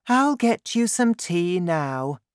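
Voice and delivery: high mother voice; Missus Cranky, placating. A narrator's reading. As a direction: placate the grandmother, high-pitched.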